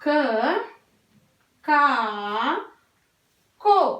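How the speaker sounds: "क, का, को" spaced out one by one; slow letter sequence. Shown as a demonstration. Teacher to pupils, spelling out vowel signs slowly. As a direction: lay out each form slowly. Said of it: "तो".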